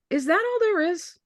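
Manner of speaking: a hint of a wide-eyed younger brother; light high-voiced imitation of the brother; brother's voice. Voicing brother's puzzled question.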